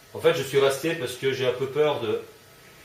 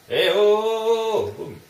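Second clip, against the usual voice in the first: excited shout; 10 semitones higher, 7 dB louder than usual. Real, not acted. Excited shooting burst.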